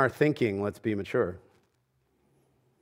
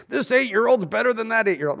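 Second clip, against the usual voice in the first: mock sideline coach; 7 semitones higher than usual. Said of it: "stereotypical Little League coach yelling".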